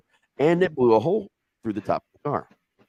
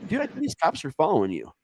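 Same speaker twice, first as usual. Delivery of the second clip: high stoned voice; 7 semitones higher than usual. Retold or imitated. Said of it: "I was like".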